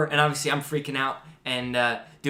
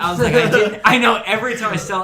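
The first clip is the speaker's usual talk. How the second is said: laughing it out, higher and much louder; 7 semitones higher, 10 dB louder than usual. Real, not acted. Retelling his nervous answer to the cop, bursting out laughing. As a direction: crack up mid-line.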